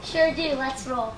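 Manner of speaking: low, soft dog voice; low, quiet and game; fairy dog mother. Acted. Dog mother answering frog mother, low soft voice.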